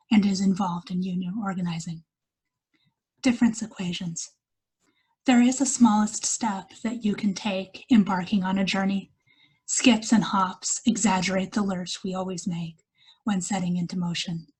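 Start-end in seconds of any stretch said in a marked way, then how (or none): 3.2-14.5 measured poetry reading with pauses between lines; poem recital. Acted. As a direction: read each line as verse, letting it settle. Reads her poem aloud.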